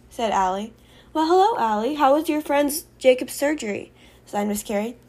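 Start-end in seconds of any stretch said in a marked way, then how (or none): 1.1-3.9 bright-spirited, higher-pitched welcome; cheery greeting. Acted. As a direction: greet a pupil with eager interest. Teacher greets pupil in story.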